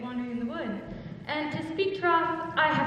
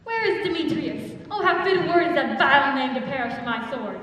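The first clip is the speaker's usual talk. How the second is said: louder, heated threat; angry outburst; 6 dB louder than usual. Acted. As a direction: spit out the vile name. Lysander threatens Demetrius.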